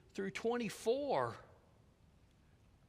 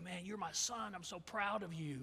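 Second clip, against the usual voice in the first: proud father; 9 dB quieter than usual. Retold or imitated. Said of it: "He says to him".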